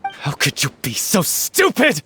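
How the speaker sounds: furious accusation. Acted. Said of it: "You've screamed and shouted at each other".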